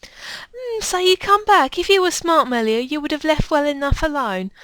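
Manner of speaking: taunting, accusing foe; hostile game villain. Acted.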